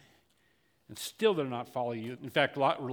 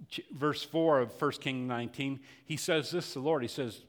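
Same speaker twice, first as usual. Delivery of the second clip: normal talking voice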